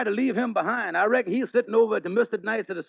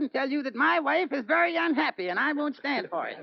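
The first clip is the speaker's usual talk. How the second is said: higher voice of a complaining husband; Brother Crawford voice; 5 semitones higher than usual. Shown as a demonstration. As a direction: slide into Brother Crawford mid-sentence. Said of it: "end up like Brother Crawford".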